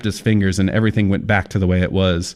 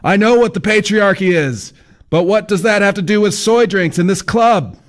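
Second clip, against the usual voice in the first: put-on indignant young man; 12 semitones higher, 4 dB louder than usual. A narrator's reading. Kyle's indignant reply.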